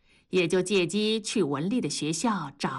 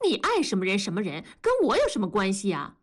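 quick, mildly irritated retort; a touch of anger, snapped out fast; angry; faster than usual. Acted. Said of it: "文丽生气地说". (略带怒气地快速反驳)

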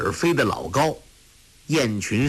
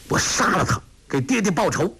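angry; 7 semitones higher, faster than usual. A narrator's reading. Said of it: "小眼睛闪出怒光".

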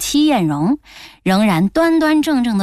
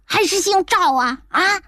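angry grandmother; 7 semitones higher than usual. Acted. Grandmother threatening son.

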